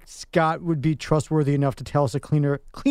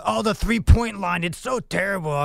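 put-on grumpy old guy; 2 semitones higher, slower than usual. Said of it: "You, you sound like the old guy".

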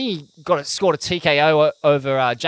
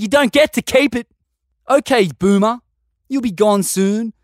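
angry spray; 4 semitones higher than usual. Acted. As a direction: spit the rhymes at boomers like a furious tirade. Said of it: "cop an original spray from Smithy".

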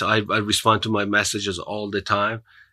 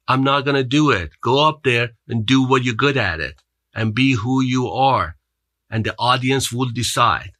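higher, louder, firm and insistent; accent coach's firm advice; 4 semitones higher, 4 dB louder than usual. Retold or imitated. Accent coach telling a nervous speaker to be himself, firm and raised. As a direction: lay down the law like a no-nonsense coach.

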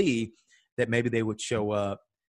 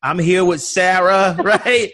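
laughing; 7 semitones higher, 10 dB louder, slower than usual. Real, not acted. Proud of making it, laughing.

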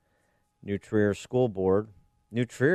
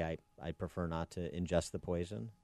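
much softer, meek polite refusal; hushed, timid objection; quiet demurral; 3 semitones lower, 12 dB quieter than usual. Acted. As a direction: decline quietly, almost under your breath. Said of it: "Do you just quietly say".

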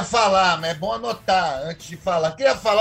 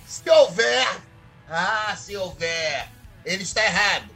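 discurso teatral; 2 semitones higher than usual. Acted. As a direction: declaim each conditional with dramatic pauses. (oratória dramática, com explosões de voz)

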